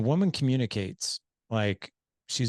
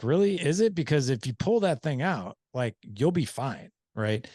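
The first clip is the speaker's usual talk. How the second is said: incredulous guy; 5 semitones higher than usual. Retold or imitated. Husband to wife about the nail, mock disbelief. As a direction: pitch up in mock disbelief at the obvious. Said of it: "he's like".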